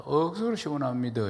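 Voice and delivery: lightly imitated Gyeongsang lilt; Gyeongsang dialect. Shown as a demonstration. Preacher contrasting it with standard Korean, Gyeongsang dialect. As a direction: say it as a Gyeongsang local would. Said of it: "경상도 말로".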